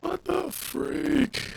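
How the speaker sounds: high, slow disbelief; drawn-out stunned exclamation; surprised. Real, not acted. Learns stream sounds garbled.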